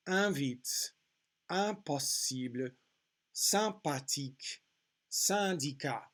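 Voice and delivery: "Invite, impossible" with weight on nasal IN; careful French list, nasal vowels stressed; emphasised nasal vowel. Shown as a demonstration. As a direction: lean on the nasal vowel in "sympathique, syndicat". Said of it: "emphasizing the nasal vowel sound".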